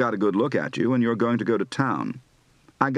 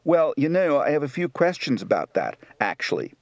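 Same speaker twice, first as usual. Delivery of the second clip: Baltimore accent. Shown as a demonstration.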